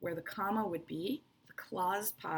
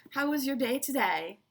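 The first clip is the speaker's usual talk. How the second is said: higher, louder asking tone; real question; 5 semitones higher, 5 dB louder than usual. Shown as a demonstration. Teacher showing a sincere question, higher and louder. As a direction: ask it like you want to know. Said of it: "So when I say".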